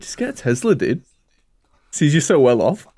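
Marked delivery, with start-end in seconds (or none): 1.9-2.9 whispered tease. Real, not acted. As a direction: whisper the jab under your breath. Teasing aside to friend.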